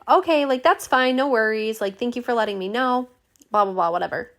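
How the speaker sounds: sugar-sweet and bright while secretly annoyed; overly nice. Retold or imitated. To the receptionist, over-polite despite the canceled appointment. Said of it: "Look at you being so nice".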